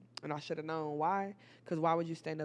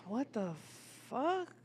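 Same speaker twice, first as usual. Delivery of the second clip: high rising shocked exclamation; stunned at what she sees; 4 semitones higher, 5 dB quieter, slower than usual. Retold or imitated. Finding naked woman in room.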